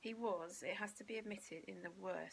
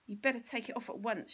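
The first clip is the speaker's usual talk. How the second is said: stern mother; 3 semitones higher, 7 dB louder than usual. Acted. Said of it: "she said".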